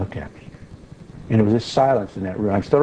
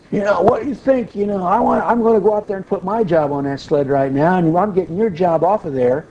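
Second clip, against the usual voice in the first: angry yelling; 5 semitones higher than usual. Retold or imitated. Boss's son yelling at a coworker in front of the office, angry. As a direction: rant at him like the boss's son in his face. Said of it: "he just started yelling at me".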